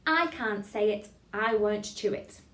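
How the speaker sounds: slow, careful diction; tongue-twister demo. Shown as a demonstration. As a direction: say it slowly for a class to copy. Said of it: "Try that".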